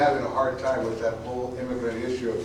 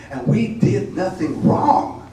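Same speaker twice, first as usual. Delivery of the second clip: defiant cry; 7 semitones higher, 8 dB louder, much slower than usual. Acted. Defiant refrain of poem.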